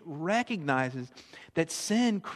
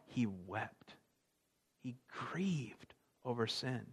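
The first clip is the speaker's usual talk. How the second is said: hushed whisper; 4 semitones lower, 11 dB quieter, slower than usual. Real, not acted. Preacher lingering on Jesus' grief, whispered. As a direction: breathe it out in a whisper.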